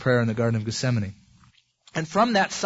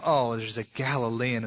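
disdainful sneer; 4 semitones lower than usual. Retold or imitated. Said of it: "they looked as disdain".

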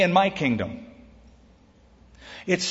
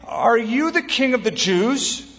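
higher, drawn-out question; questioning governor; 7 semitones higher than usual. A narrator's reading. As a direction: read it as a governor's slow, rising question. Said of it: "the governor asked him, saying".

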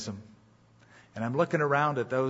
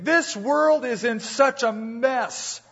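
mock complaint; 9 semitones higher, 3 dB louder, slower than usual. Quoting people who complain about the world.

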